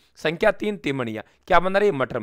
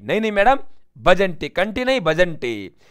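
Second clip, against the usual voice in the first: flustered correction; 3 semitones higher, 3 dB louder than usual. Acted. Shopkeeper hastily correcting himself.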